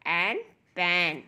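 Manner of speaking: drawn-out blending into मैन; slow phonics blend. Shown as a demonstration. Teacher blending sounds slowly for children. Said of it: "पी का sound है प".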